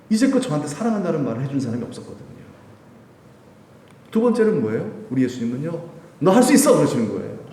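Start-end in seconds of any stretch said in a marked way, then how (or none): 6.2-6.8 cheering him on, higher and louder; rally him like a coach; encouraging call. Acted. Jesus voiced cheering on the young preacher, louder.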